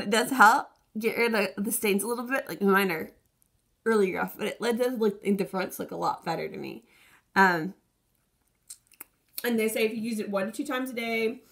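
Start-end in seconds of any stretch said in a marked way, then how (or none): 0.0-7.7 talking while holding lips apart; lips pulled down with fingers. Real, not acted. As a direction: lip movement blocked by fingers. Seen 5: Both hands pull lower lip down, baring teeth, throughout labelled words.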